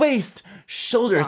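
high, slow mock pose counting; posing call-out. Friend mimicking her posing in videos, slow high call-out. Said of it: "where she just poses".

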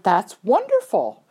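slow retold praise, stretching "wonderful"; drawn-out congratulations. Trainer congratulates rider on her ribbon, slow and admiring. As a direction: linger on the praise, swelling on "wonderful".

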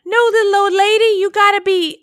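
high, sweet, coaxing Southern belle; sweet old lady voice. Retold or imitated. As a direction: coax her back like a kindly helper. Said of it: "She's like".

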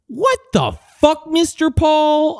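high, slowing cry of disbelief; calling out the old man in a high, mock-appalled voice; mock outrage. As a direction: wail his name in mock outrage.

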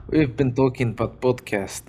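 lively mock Russian accent. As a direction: put on a playful Russian accent. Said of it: "That's a Russian accent".

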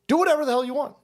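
the host voicing Trump telling a NATO ally it is on its own, emphatic; paraphrasing Trump. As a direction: lay down the law like a boss cutting off a freeloader. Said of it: "and saying".

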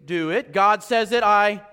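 slow and rising to a firm declaration; simple obedient prayer. Retold or imitated. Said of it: "it's like".

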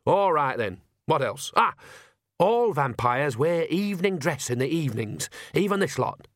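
lightly voiced old witch, animated; Nanny Ogg, hitting on an idea. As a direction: think aloud, then seize on it brightly. Voices Nanny thinking aloud.

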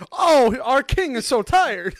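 high, slow, cooing pity; doting mock pity. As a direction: coo over a tired king. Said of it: "how people expect you to react".

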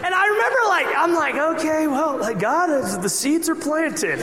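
excited laugh at the anticlimax. Real, not acted.

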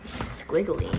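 soft whispered remark; whispering. Real, not acted. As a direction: breathe it in a whisper.

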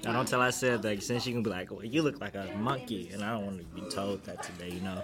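talking while chewing gum; chewing gum between words. Real, not acted. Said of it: "I can hear it every single time you chew your gum".

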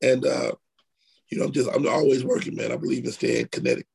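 hoarse, low and worn from a cold; raspy voice. Real, not acted. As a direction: talk through a sore, raspy throat. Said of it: "Sorry for the raspy voice today".

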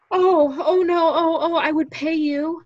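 hammed-up reassurance, high and sweet; mock comforting. Boss reassuring the comic he'd pay, mock comforting and high. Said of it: "as though he's gonna be comforting".

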